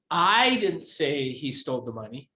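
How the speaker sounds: I betont, Rest flach; stress on I. Shown as a demonstration. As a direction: hit the word I first. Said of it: "depending on which word I emphasize".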